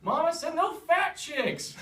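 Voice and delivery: put-on high, loud, slow childish yell. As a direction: yell it like a spoiled man-child. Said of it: "he yells".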